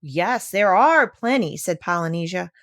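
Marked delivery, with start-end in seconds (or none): 0.0-1.6 slow, lightly voiced parrot. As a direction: drag it out dismissively.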